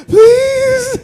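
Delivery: very high, loud begging squeak; desperate plea. Retold or imitated. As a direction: beg for mercy, breathless. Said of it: "I'm like".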